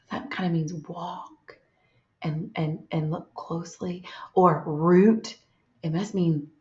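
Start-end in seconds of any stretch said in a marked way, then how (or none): 0.1-4.0 much softer, musing; quiet thinking to yourself. Shown as a demonstration. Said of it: "Use your thinking voice".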